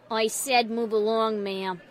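loud, slow, low command; stern order. A narrator's reading. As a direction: order them along like security. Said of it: "ordering them to move along".

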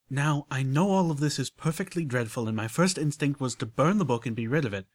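a hint of genteel unicorn, explaining; lightly voiced refined lady. Rarity explaining soul jars to Applejack, lightly refined voice. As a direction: lay it out carefully, ladylike.

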